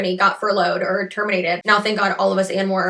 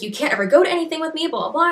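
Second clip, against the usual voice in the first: higher, fast mock complaint; mock complaining boyfriend; 6 semitones higher, faster than usual. Imitating her boyfriend's gripe about weekends, higher and fast. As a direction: parrot his gripe in a higher, rushed voice.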